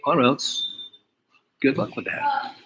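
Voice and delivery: mocking taunt. Speaker taunting client.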